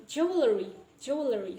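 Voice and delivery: jewelry as "jew-uh-le-ree"; inserted vowel. Shown as a demonstration. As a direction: add a vowel inside jewelry before the R. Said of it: "we add".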